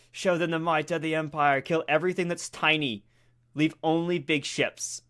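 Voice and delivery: roaring rallying speech. Acted. Commanding troops, battle cry.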